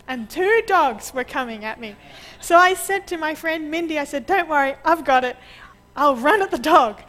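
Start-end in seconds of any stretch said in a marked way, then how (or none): 4.3-7.0 loud and fast, boldly reassuring; confident retold call. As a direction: call it out loud and quick, full of nerve. Bravely reassures friend Mindy.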